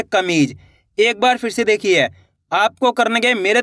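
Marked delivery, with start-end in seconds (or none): 0.0-0.6 कमीज drawn out long, vowel ई held; stretched out. Shown as a demonstration. Teacher showing pupils how to stretch out कमीज. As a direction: stretch the word कमीज slowly. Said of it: "खींच के".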